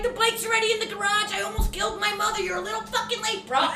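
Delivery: high, indignant rant; retold exasperation. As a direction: tell off a would-be rescuer who came too late. Retold scolding of late neighbor.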